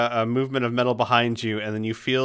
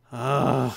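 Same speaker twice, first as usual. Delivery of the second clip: groggy groan. Acted. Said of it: "very groggily".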